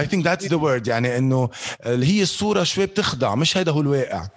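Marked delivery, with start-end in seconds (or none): 0.0-0.9 arabic english mix. Real, not acted. Switches to English mid-talk.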